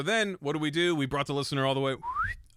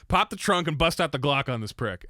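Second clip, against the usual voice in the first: hyped-up boast; 4 semitones higher, 5 dB louder than usual. Acted. Hyping the glockenspiel entrance.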